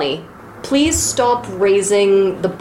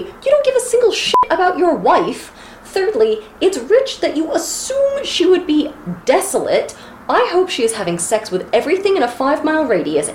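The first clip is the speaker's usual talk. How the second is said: ranting. Shown as a demonstration. Podcaster reading out her rant at Gulliver, indignant. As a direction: lay into him, point by point. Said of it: "here is a rant that I wrote".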